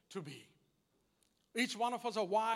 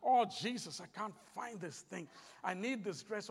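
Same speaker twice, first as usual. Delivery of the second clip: imitated crying out; 2 semitones lower than usual. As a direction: mimic a wife's fretful prayer under her breath. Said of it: "She'll be crying out".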